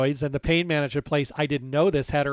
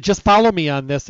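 loud, firm demand; heated insistence; 2 semitones higher, 7 dB louder than usual. Retold or imitated. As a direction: push it through, raised voice. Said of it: "It got very heated".

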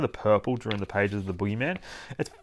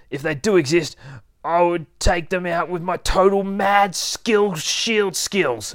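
cocky, dismissive teddy bear, pitched up; swaggering toy hero building to a big boast; boastful teddy; 4 semitones higher than usual. Acted. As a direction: brag with growing bluster.

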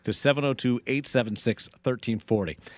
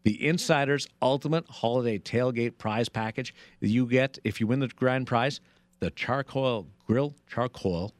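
radio contest promo. Acted. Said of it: "Possibly the worst read ever for the holiday tailgate party".

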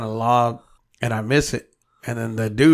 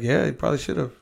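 a mild, sheepish yes, a bit softer; timid agreement; 2 semitones higher, 5 dB quieter, faster than usual. Retold or imitated. To Wood, sheepishly agreeing he should have asked. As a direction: go along meekly, like a scared kid. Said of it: "So I'm being a little scary bitch".

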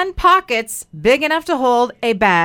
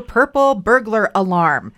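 tongue twister. Shown as a demonstration. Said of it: "here's a tongue twister for you".

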